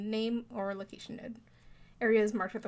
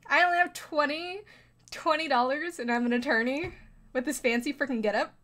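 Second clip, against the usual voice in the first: loud, higher, indignant outburst; 4 semitones higher, 4 dB louder than usual. Real, not acted. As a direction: protest about being broke in a fancy getup. Outraged at having only twenty dollars.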